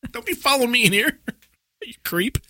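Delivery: high laughing tease. Real, not acted.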